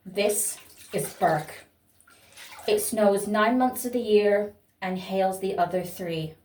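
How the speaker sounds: reciting monologue. Shown as a demonstration. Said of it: "I am gonna recite it to you now".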